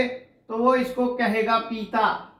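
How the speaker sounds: पीता said slowly with a long ई. Shown as a demonstration. Teacher showing a child's misreading, slow long ई. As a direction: draw out the ई in पीता. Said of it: "बड़ी ई की मात्रा के रूप में पढ़ ले".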